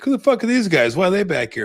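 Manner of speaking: high, loud mock outraged yell; hammed-up angry retold yell. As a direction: shout like a furious wrestling manager. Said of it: "Bobby the Brain's like".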